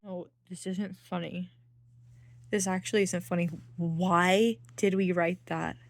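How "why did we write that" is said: cringing laugh. Real, not acted. Embarrassed at own writing.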